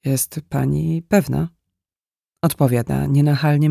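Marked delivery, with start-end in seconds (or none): 0.0-1.5 slow question, "pewna" falling slightly at the end; tentative, with a slight dip on "pewna"; gentle hesitation. A narrator's reading. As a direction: ask unhurriedly, let the last syllable of "pewna" drop a little. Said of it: "głos lekko opada na ostatniej sylabie".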